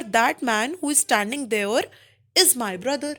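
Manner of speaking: very slow, spaced words; slow example read. Shown as a demonstration. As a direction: read it slowly for the class. Teacher reading example slowly. (धीरे उदाहरण पढ़ना)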